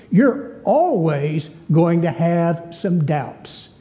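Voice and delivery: deliberate, weighted sermon delivery; emphatic preaching. Real, not acted. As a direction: preach it slowly and firmly, word by word. Preaches on grace.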